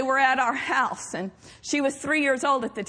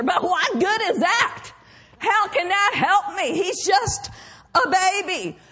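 mock skeptic; 4 semitones higher than usual. Voicing a skeptic's challenge.

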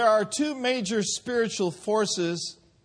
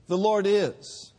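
slow and weighty; "Lord" leaned on, then "is" set down; stress on Lord; slower than usual. Shown as a demonstration. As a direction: declare it slowly. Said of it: "present-day psalm".

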